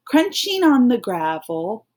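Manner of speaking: slow, even read-along pace. Shown as a demonstration. Teacher reading along with pupils, slow and even. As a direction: read slowly so they can follow. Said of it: "Let's read this part".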